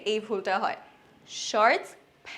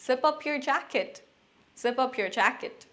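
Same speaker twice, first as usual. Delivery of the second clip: slow model sentence; much slower than usual. Shown as a demonstration. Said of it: "যেমন".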